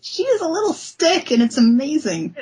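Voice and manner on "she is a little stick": raised, delighted pitch; tickled by the drawing; amused. Real, not acted. Amused to cohosts about a skinny character.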